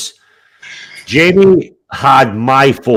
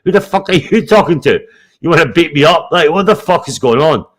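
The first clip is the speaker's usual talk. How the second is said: laughing disbelief, pitched up; incredulous, laughing; 4 semitones higher than usual. Retold or imitated. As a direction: act baffled and amused, laughing through it. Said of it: "I was like".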